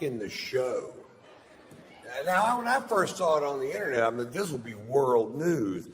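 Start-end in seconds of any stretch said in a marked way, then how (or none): 2.3-5.9 escalating comedy rant. Acted.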